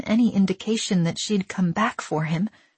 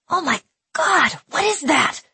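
put-on high, louder frightened boy's cry; startled terror; 11 semitones higher, 4 dB louder than usual. A narrator's reading. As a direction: shriek at the writhing worms. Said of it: "in startled terror".

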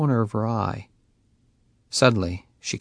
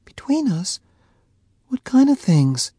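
high, louder disbelief; incredulous; 6 dB louder than usual. A narrator's reading. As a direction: throw his words back at him. Faye incredulous.

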